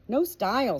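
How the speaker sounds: a clipped, sneering verdict; contempt. Acted. Mum sneering at the neighbour, contemptuous. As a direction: dismiss it with contempt. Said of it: "said Mum with contempt".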